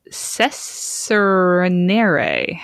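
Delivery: slowly sounded out cessionare; backwards speech. Shown as a demonstration. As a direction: drag each syllable of cessionare. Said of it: "Did you say that backwards?".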